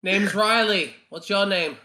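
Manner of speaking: loud cheerful hello; bright loud greeting. Acted. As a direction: call out a friendly introduction. In-character introduction.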